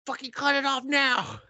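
loud, high-pitched mock screech; yelling. Main maid ordering a girl punished, yelling. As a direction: yell the order at full tilt. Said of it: "yelling at this one girl".

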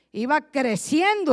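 the voice grows in strength; building up loud. Shown as a demonstration. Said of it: "trueno de voz".

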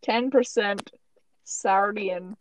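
slipping cartoon-villain accent; half-hearted imitation of a character's accent; Gru. Host reads out Gru's background in a slipping Gru accent. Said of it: "my Gru accent is getting much worse".

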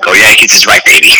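loud excited cheer; cheering shout. Real, not acted. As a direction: shout it like a fan. Cheering sign-off.

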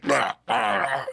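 mock vomiting noise; imitated retching. Passenger two rows back throws up, imitated retching. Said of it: "someone's throwing up".

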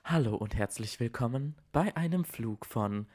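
automated airline announcement; flat robotic monotone. Pretend. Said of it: "So hast du dich gerade angehört".

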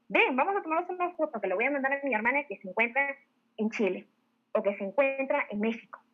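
quick, confident invitation; confident seller rattling off a friendly offer; self-assured. Shown as a demonstration. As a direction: pitch it briskly, sure of yourself. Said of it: "cuando tú te sientes segura".

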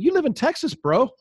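laughing through the words; a laughing scoff at the absurdity; laughing retort. Retold or imitated. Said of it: "I'm like".

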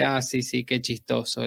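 muttered under the breath; murmuring. Retold or imitated. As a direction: grumble it softly to yourself. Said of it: "empieza a murmurar". (murmurando entre dientes)

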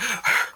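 a sharp, high fake gasp of panic; faked gasp. Faking hyperventilation to mess with the lady, staged gasp. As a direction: gasp like you just realised something awful. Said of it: "So I faked like I was, uh, hyperventilating".

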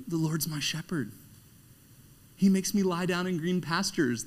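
a hint of a bubbly woo girl reading the psalm. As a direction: play the excited party girl lightly. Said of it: "some kind of woo girl".

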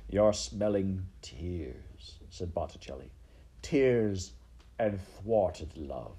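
very slow, savouring delivery; Botticelli. Acted. Rat explains the smell of tears, slow relish. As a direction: linger on each word.

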